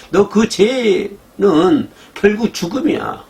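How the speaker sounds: a hint of an urgent divine rebuke; God warning sternly. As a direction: scold the sinner into repenting. Preacher voicing God's warning.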